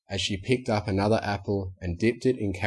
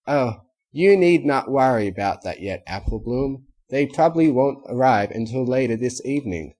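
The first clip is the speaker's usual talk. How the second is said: put-on posh city accent; 3 semitones higher, 4 dB louder than usual. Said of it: "what the hey happened to your voice".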